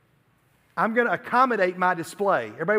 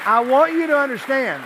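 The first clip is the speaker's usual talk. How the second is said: emphatic raised appeal; 6 semitones higher, 7 dB louder than usual. Real, not acted. Preacher emphatic appeal after sketch.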